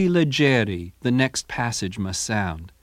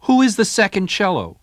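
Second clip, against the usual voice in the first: put-on higher, light old maestro voice; a hint of stern Verdi asking; voicing Verdi; 10 semitones higher, 5 dB louder than usual. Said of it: "Verdi stopped the rehearsal and asked".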